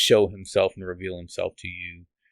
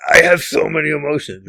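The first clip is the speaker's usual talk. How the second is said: mock protest; 7 semitones higher, 9 dB louder than usual. Defending himself to his wife.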